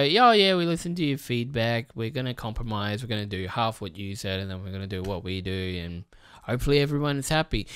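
mock corporate promise. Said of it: "they go".

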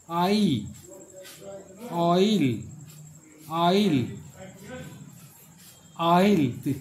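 ऑयल repeated with firm stress; teacher sounding out ऑयल clearly; modelling oil. Shown as a demonstration. Teacher drilling the word oil, firm and clear. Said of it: "ये हम लोग बोलते हैं ऑयल".

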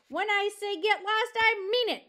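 loud, high angry order; bellowing. Acted. Porcupine ordering fox to get lost, bellowing. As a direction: bellow it as a final warning. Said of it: "Aerith bellowed".

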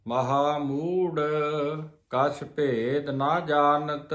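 slow, measured chanted reading of gurbani; slow scripture recitation. Shown as a demonstration. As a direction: recite each word deliberately like a granthi. Recites scripture line slowly. (Gurbani ਦਾ ਹੌਲੀ ਪਾਠ)

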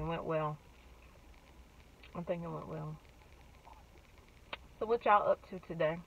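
muffled behind fist; speaking through hand. Real, not acted. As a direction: hand pressed over mouth. Seen 5: Fist and fingers pressed over her mouth throughout the labelled words.

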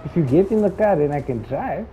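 put-on playful east asian accent as Dominic Toretto; lightly put-on east asian accent. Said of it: "You sound like, uh, Asian".

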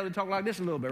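quick taste of a Southern accent. Shown as a demonstration. Preacher showing how Southerners talk, light Southern accent. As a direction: lightly imitate Southern US speech. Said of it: "if someone's from the South".

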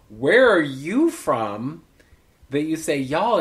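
WHERE ARE YOU FROM stretched slow and loud; slow, emphatic "Where are you from"; pointed question. Retold or imitated. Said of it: "somebody was like".

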